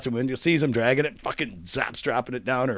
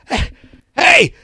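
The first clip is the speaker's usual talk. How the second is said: high, loud mock outburst; worked-up shout, acted out; retold furious text; 9 dB louder than usual. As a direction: imitate an enraged friend starting a rant.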